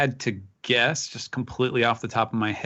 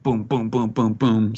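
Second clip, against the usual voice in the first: a run of punchy booms; repeated comic-book booming, punched out; imitated air-step booms; 4 dB louder than usual. Shown as a demonstration. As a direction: sound out each step as a boom. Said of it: "sort of like the, uh, the, the Rokushiki thing".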